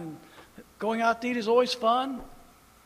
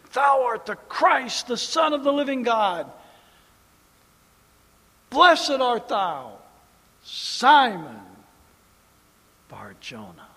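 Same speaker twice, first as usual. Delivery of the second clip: preacher recites confession and blessing; proclaimed scripture; 4 semitones higher, 7 dB louder than usual. Acted. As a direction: declare then soften on Bar Jonah.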